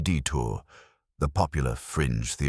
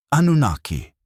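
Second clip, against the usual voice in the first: raised, louder imitation of a crowd shouting; mock shout; 9 semitones higher, 6 dB louder than usual. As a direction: call it out high like an excited crowd. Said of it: "people start shouting".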